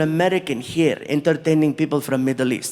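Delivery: low, earnest, formal prince; low and stately, lifting gradually towards the end; prince's voice. Retold or imitated. Prince telling the comic how big this is, low and earnest. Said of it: "He's like".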